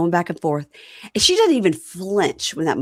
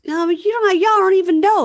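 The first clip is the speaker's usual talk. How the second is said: mock indignant protest; 13 semitones higher, 5 dB louder than usual. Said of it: "Moonbo goes".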